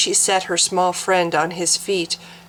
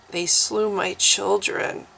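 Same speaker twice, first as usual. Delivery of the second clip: moaned softly; 2 semitones higher than usual. Acted. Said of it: "she moaned softly".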